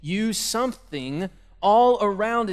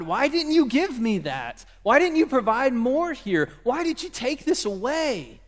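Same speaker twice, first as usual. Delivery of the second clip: higher, aggrieved questions; complaining to God; 5 semitones higher than usual. Retold or imitated. Believers complaining to God, higher mock grievance. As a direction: whine at God like a child denied. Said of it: "so often we say to God".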